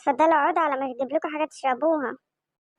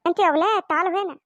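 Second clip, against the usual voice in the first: calling out; 3 semitones higher than usual. Acted. Mother calls children angrily.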